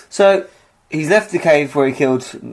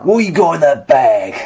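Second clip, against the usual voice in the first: Ray Winstone voice; 4 dB louder than usual. Pretend. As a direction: menace the stranger like a London heavy. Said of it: "You sound like Ray Winston".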